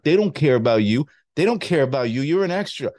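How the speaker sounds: caring but forceful De Niro; De Niro impression. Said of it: "That was a good De Niro".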